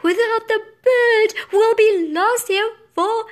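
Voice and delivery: high, loud theatrical wail; hammed-up tearful wailing; sobbed. A narrator's reading. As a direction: bawl it melodramatically, stretching the end. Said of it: "she sobbed".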